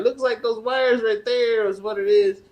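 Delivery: a hint of a know-it-all worker; retold maintenance man.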